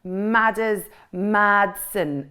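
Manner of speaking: "Madders Madsen" with "Mad" hit and drawn out, slow; stress on mad. Shown as a demonstration. Poet showing how her name should sound, slow stress on mad. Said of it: "Emphasis on the mad".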